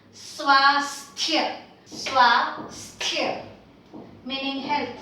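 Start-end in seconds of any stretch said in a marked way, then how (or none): 0.1-3.5 "swasthya" in two parts, aspirated th. Shown as a demonstration. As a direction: model "swasthya" carefully, puff of air on the th. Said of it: "don't forget to aspirate".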